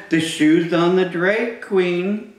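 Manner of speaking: put-on reading to children. Reading picture book aloud to kids.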